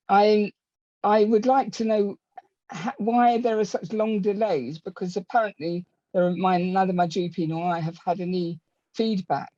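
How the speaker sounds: breathless, pausing between phrases; talking while out of breath; short of breath. Real, not acted. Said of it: "Sorry, short my breath".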